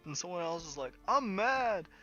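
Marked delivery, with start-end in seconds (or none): 1.1-1.9 high, louder mock anger; hammed-up indignation; angry crowd member. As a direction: announce your anger in a put-on high voice. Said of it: "angry group starts to form".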